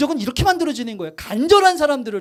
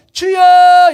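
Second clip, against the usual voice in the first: loud, sudden cry of 주여; fervent shout of "Lord"; 5 semitones higher, 11 dB louder, much slower than usual. Retold or imitated. Pastor imitates the third-night congregation, shouting. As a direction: burst out with a full-throated cry to the Lord. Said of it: "갑자기 주여가".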